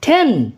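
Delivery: टेन with a puff of air after t; aspirated T. Shown as a demonstration. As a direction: say टेन as "t-hen", breath on the t. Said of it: "इसी तरह से ये sounds हैं".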